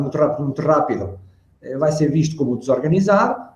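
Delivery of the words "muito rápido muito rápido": rushed, repeated words run together; hurried demo of too-fast talking. Shown as a demonstration. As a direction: rattle it off in a hurry. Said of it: "o falar muito rápido".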